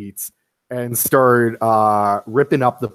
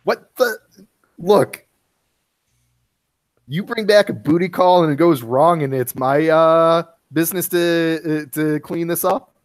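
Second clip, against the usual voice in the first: exasperated; 3 semitones higher than usual. Acted. Roommate scolding over the mess.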